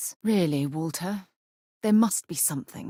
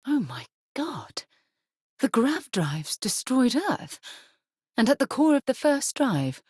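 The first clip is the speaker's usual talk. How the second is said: shocked; 8 semitones higher than usual. Acted. Companion realizing grav drives destroyed Earth, shocked.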